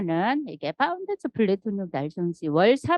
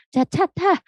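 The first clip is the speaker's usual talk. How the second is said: high, loud call to hop in; calling the daughter into the car; 11 semitones higher, 4 dB louder than usual. Retold or imitated. Mother calling daughter into the car, loud and high.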